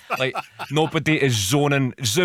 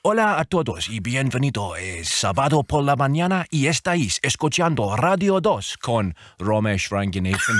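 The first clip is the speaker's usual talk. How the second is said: lightly put-on Spanish radio announcer; Spanish radio trail. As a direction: introduce the show like a Spanish presenter. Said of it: "I'll record you a trail in Spanish".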